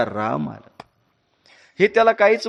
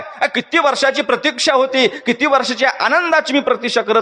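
higher, bright outpouring of long-awaited joy; joyful wife; 5 semitones higher than usual. Acted. Wife offering sweets to the king, overjoyed. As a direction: offer the sweets, glowing with relief. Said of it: "राजाला बोलत होती".

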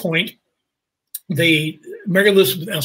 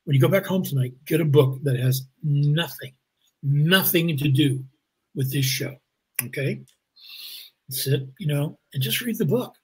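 measured advice, falling softer with weighty pauses; Morgan Freeman; 4 dB quieter than usual. Retold or imitated. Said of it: "And Morgan Freeman goes".

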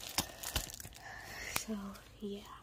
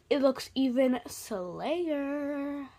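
slang; much slower than usual. Pretend. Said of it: "Even more slang".

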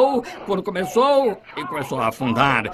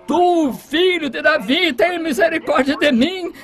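desperate shout; 7 semitones higher than usual. Retold or imitated. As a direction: beg for mercy at the top of the voice. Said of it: "E ele gritou em desespero".

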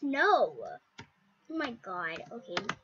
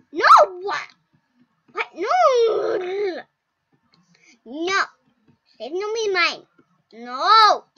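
loud, higher desperate no; panicked cries; 5 semitones higher, 12 dB louder, much slower than usual. Real, not acted. Kid crying out as her friends die in the game. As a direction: cry out in panic.

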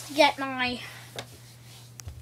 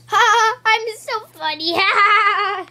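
gloating laugh; 7 semitones higher, 6 dB louder, slower than usual. Pretend. Toy character gloating loudly.

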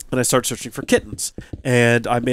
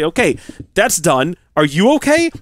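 anxious check; 3 semitones higher, 4 dB louder than usual. Retold or imitated. Owner checks on the dog after the snake, anxious.

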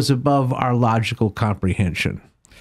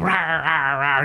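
mock lion roar; slower than usual. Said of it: "The lion comes up".

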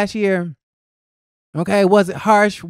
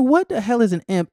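lightly acted bafflement, pitched up high; mild baffled disbelief; 5 semitones higher than usual. Host retelling her reaction to the word imp, mildly baffled. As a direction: replay a puzzled reaction in a higher voice.

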